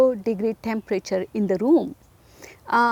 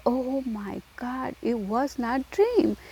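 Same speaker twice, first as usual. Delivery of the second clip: awed dread; 3 semitones higher, 5 dB quieter than usual. Real, not acted. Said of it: "recounting a frightening night".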